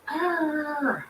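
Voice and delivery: high, drawn-out "arrr" of frustration; mock frustrated growl. Mourner venting alone in the shower, mock frustrated growl.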